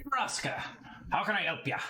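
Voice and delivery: high, friendly halfling voice; a barkeep greeting a visitor; halfling Lot greeting. Acted.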